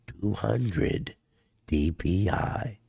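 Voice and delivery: slow DPI announcer voice; drawn out like a gamer readout; DPI guy voice. Pretend. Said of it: "the D P I guy".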